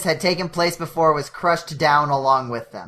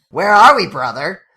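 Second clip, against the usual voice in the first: casual glove voice; 7 dB louder than usual. Acted. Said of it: "asked casually".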